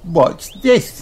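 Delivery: high little piglet voice; Peppa. A narrator's reading. Peppa suggests a game to George, high-voiced. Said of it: "says Peppa".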